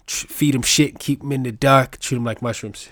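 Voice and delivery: lightly put-on Boston accent; hint of Boston accent; Mark Wahlberg, Boston accent. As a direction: imitate a Boston movie cop, "dahk" for dark. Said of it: "be like Mark Wahlberg in The Departed".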